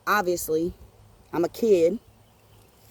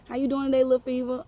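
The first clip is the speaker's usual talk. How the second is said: higher-pitched imitated neighborly greeting; lightly voiced older people; 6 semitones higher than usual. Older people greeting her in the hood, lightly imitated. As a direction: greet as an elder would, pitched up. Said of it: "The older people".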